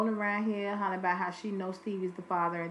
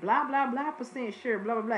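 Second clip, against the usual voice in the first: mocking, overconfident talk-show guest, a touch higher; Maury guest; 4 semitones higher than usual. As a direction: ham up a cocky paternity-test guest. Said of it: "What they be saying on Maury?".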